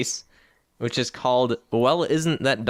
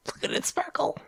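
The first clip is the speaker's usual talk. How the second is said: whispering; 7 dB quieter than usual. Acted. Admiring the sparkle.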